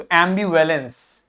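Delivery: ambivalence slowly, weight on AM; careful ambivalence, light ending; stress on first syllable. Shown as a demonstration. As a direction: lean on AM in ambivalence. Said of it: "इस पे हमें जोर देना है".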